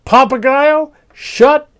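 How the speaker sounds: high, loud, exasperated yell; furious storybook shout, punching each word; angry scream. A narrator's reading. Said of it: "would get angry and scream".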